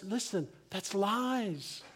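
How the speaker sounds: slow, emphatic declaration of love; insistent, heartfelt reassurance, lightly acted; God's pleading voice. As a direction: plead it earnestly, drawing out the key words. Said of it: "But God is saying to us".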